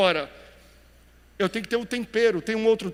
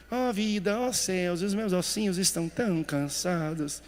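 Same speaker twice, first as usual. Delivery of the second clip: mock lifeless whine. Shown as a demonstration. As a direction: play the limp, lifeless complainer. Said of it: "Você não tá cansado falando assim?". (lamento arrastado e sem vida, de brincadeira)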